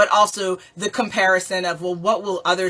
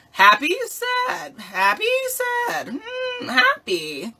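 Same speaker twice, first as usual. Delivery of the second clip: mock sad; slower than usual.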